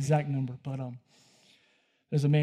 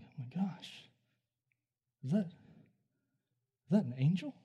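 hushed, halting disbelief; awed whisper; 7 dB quieter, much slower than usual. Retold or imitated. Preacher reliving spotting something in the corner, awed whisper. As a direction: whisper it slowly, as if hardly daring to ask.

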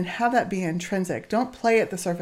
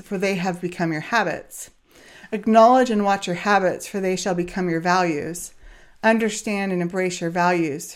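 quote reading. Acted. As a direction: read it like a solemn saying. Reads a quote slowly.

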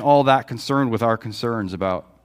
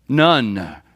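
matter-of-fact. Retold or imitated. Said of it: "she said matter-of-factly".

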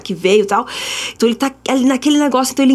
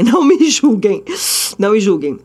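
laughing. Real, not acted. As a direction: laugh it out, embarrassed. Embarrassed at her mistake.

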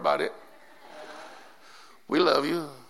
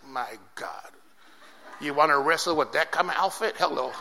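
mock God voice; 4 semitones lower, 3 dB quieter than usual. God mocking the wrong outfit.

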